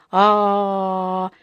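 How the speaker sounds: long, steady open-mouthed "aah"; full-voice "aah". A narrator's reading. Bear dutifully opening his mouth for the dentist, full voice. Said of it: "в полный голос сказал".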